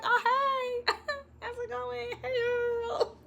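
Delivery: put-on very high, softened girly hello; imitated chill greeting. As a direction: play her breezy and unbothered, giggling. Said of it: "like, chill with each other".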